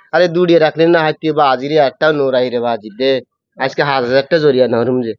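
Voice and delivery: Noakhali dialect, calling out then griping; a lightly voiced Noakhali villager over stolen coconuts. Shown as a demonstration. Host asks for Noakhali dialect, guest rants in Noakhali dialect. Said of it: "নোয়াখালীর ভাষাটা শুনতে চাই".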